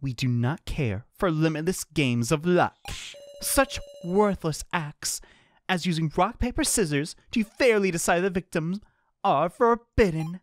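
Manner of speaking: formal announcer reading the rules; host explaining a deadly game calmly. Acted.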